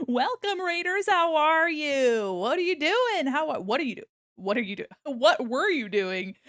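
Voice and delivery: high, loud gushing hello; bubbly loud welcome to the raiders; excited greeting. Real, not acted.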